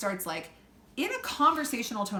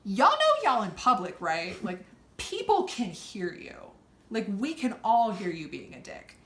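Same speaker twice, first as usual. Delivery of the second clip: calling them out; 4 dB louder than usual. Retold or imitated. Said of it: "and I was like".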